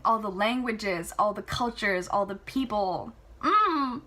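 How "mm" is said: ordinary delivery, nothing marked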